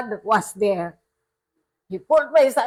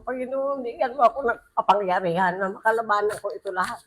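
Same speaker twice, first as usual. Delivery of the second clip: prayer; 2 semitones lower, 4 dB quieter, faster than usual. Shown as a demonstration. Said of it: "Pagdasal mo".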